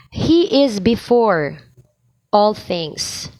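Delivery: bright, confident proclamation; joyful, firm demo of the line; joyful conviction. Shown as a demonstration. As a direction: say it with joy and conviction. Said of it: "Here, speak joyfully and with conviction".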